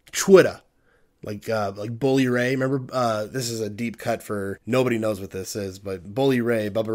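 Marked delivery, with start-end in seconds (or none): 0.1-0.6 Twitter said loud and sharp, as if spelled with a C. Shown as a demonstration. Loud joking Twitter with a C. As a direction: punch out Twitter with a hard C. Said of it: "pronounced with a C".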